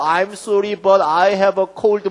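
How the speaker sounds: slow, stretched apologetic excuse; drawn-out excuse. Shown as a demonstration. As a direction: drag out the excuse. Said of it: "구구절절하게". (느리게 늘어지는 변명조)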